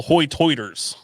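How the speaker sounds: "hoy-toiters" with OY vowels in place of long I; rounded OY in both halves of "hoy-toiters"; island pronunciation. Shown as a demonstration. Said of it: "that's how they say high tide".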